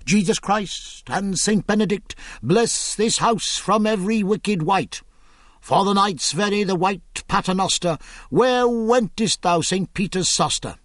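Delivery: a fearful man reciting a spell; lightly voiced night-spell; muttered charm. Carpenter chants a night-spell.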